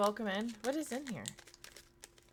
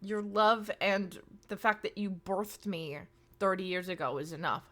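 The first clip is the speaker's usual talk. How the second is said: gentle, restrained insistence; polite reassurance; 2 semitones lower than usual. Real, not acted. Streamer telling mom not to gift subs, polite. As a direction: let her down politely, without yelling. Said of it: "I'm politely telling her".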